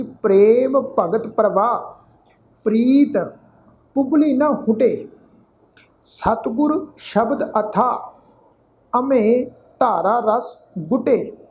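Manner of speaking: slow, phrase-by-phrase recital with long pauses; measured scripture recitation. Real, not acted. Teacher reciting gurbani to the sangat, slow and measured. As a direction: recite each phrase deliberately, letting it settle.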